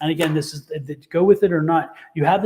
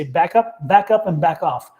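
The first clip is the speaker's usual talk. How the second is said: firm refusal; 5 dB louder than usual. Pretend. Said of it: "You need to say".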